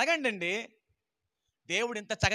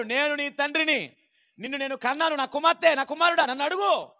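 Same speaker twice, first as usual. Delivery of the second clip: higher, louder fatherly call; voice of God; 5 semitones higher, 5 dB louder than usual. Acted. God calling his daughter and son to ask him, lifted and loud.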